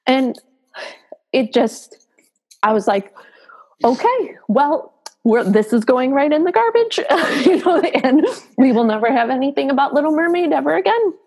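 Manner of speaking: high, tearful voice breaking into laughter; crying. Real, not acted. Mother vowing to bin the Little Mermaid bag, laughing through tears. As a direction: joke through real tears. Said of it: "just like I'm crying right now".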